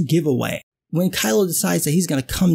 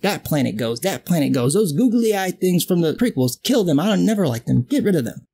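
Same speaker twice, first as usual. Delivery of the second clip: mock Vader; 2 semitones lower than usual. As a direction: toss off the orders like a bored tyrant. Imitating Vader ordering planet destruction.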